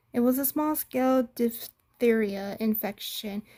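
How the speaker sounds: small-scale stressed and slowed; stressing small-scale. A narrator's reading. Elsa downplaying the outbreak to the detective, leaning on small-scale. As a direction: lean on small-scale to play it down. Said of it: "She intentionally emphasized the word minor".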